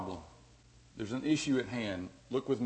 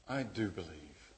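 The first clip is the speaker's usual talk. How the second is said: much softer, fading into a whisper; hushed prayer; 4 semitones lower, 12 dB quieter than usual. Retold or imitated. The father praying to Jesus, hushed and fading to a whisper. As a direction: pray it quietly, confessing.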